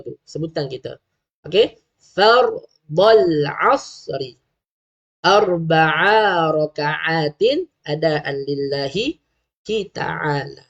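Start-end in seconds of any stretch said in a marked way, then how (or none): 2.0-10.6 drawn-out, chanted Arabic intention; slow niat recitation. Shown as a demonstration. Teacher reciting the niat to parents, slow and chanted. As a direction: recite each word slowly for parents to copy. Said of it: "Cuba sebut".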